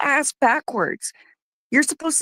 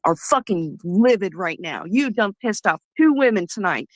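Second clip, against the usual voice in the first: angry. Real, not acted. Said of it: "I'm fucking pissed".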